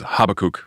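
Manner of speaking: "Habakkuk" as HAB-uh-kook; English prof's pronunciation. Retold or imitated. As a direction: say "Habakkuk" with an oo in the last syllable. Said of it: "I had a prof from England".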